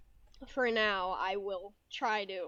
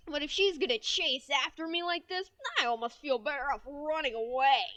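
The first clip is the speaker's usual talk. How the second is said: lightly acted game protagonist; Scrimp; 4 semitones higher, 4 dB louder than usual. Mascot grumbles about walking to school together, lightly acted character voice. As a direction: put a little more into the narration. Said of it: "I'm kind of putting a little more into it".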